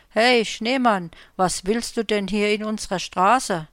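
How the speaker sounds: loud call into the night. Acted. Unseen voice calls out to the snowman, loud. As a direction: call out to a stranger on the street.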